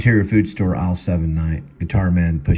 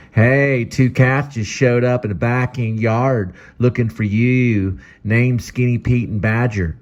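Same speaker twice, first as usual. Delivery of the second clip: higher, slower caller voice; phone caller; 6 semitones higher, 3 dB louder, slower than usual. Acted. Caller telling Guitar Man about visitors, slow and high. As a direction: report it down the line.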